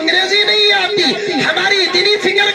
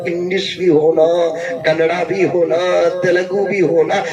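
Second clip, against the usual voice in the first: mock advice; 11 semitones lower than usual. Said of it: "लोग कहते हैं कि नहीं मौलाना".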